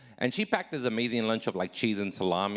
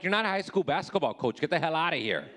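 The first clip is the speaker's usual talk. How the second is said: exasperated retort; 5 semitones higher than usual. Retold or imitated. Retorting to girlfriend on trail.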